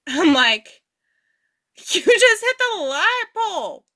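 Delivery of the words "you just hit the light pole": high-pitched disbelieving tell-off; incredulous retort. Retold or imitated. Narrator telling her dazed friend, high and disbelieving. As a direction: state the obvious, amazed she needs telling.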